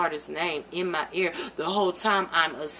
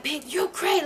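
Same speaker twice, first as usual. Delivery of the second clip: higher scornful imitation of him; mild mock scorn; imitating him mocking; 8 semitones higher than usual. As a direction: toss it off like he did. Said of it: "he was just screaming all this".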